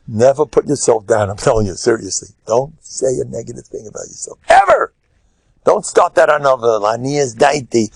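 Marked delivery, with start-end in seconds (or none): 4.5-4.9 EVER shot up high and loud; emphatic warning. Real, not acted. Preacher warning never to belittle yourself, sharp high shout. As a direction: slam the word home.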